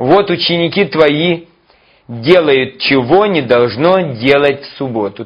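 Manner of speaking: contemptuous, accusing, scornful, reproachful tone. Acting out the Pharisees reproaching the disciples, mock scornful, reproachful tone. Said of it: "с пренебрежением, вот так".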